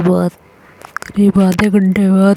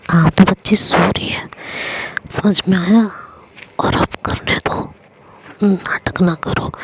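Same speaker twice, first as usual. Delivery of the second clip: hushed whisper. Acted. Whispering beside sleeping child.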